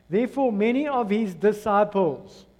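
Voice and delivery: deliberate, measured scripture reading; read slowly. Shown as a demonstration. Preacher rereading the verse to the congregation, slowly. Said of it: "I'm gonna read it slowly to you".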